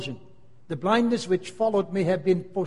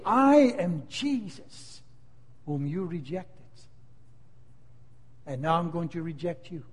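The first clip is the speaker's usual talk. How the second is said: voice of the judge; 3 semitones lower, 5 dB quieter than usual. Acted. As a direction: pronounce it like a final sentence. The judge speaks to the sinner.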